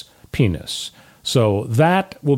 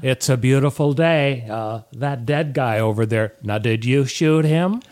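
a lightly voiced gentle TV host drifting into a George Bush drawl; slow, neighbourly mock TV host, slipping into Bush; Mister Rogers voice gone Bush. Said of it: "That may have been more of a Bush impression than Mister Rogers".

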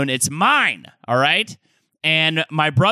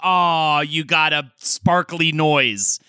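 talking loot box. Pretend. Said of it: "I'm a talking loot box wizard".

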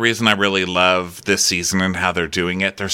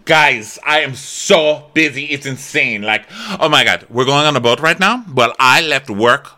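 Gertie; 4 semitones higher, 3 dB louder than usual. Retold or imitated. Mimicking Gertie's harried entrance.

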